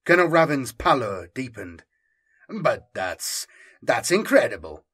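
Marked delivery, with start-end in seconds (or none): 2.5-4.9 stammering. Acted. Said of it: "he stammered".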